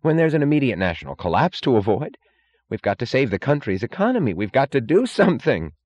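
urgent, high-pitched cry; Wesley Mooch. A narrator's reading. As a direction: insist urgently that action is needed. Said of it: "cried Wesley Mooch".

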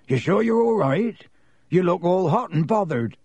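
high-pitched, rustic concern; Hagrid, concerned. A narrator's reading. Groundskeeper checking on flustered Harry, concerned. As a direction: ask with hearty worry.

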